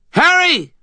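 high desperate howl; howled name. A narrator's reading. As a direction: howl his name in panic. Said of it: "Butters howled".

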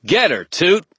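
high, loud snarling order; snarled command. A narrator's reading. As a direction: snap the command at the fairy. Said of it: "I opened the bag and snarled".

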